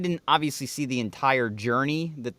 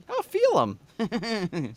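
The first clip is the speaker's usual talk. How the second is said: slow suggestive; 7 semitones higher, much slower than usual. Retold or imitated. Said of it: "it's just like".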